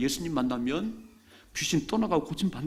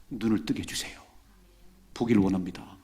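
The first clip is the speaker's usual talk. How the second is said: whispered plea; 5 semitones lower than usual. Acted. Blind man's whispered plea.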